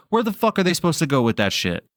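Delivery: retelling a fed-up fan's high-pitched complaint; imitated frustration. Quoting a Raiders fan watching missed blocks, imitated high-pitched frustration. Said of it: "the frustration in his voice".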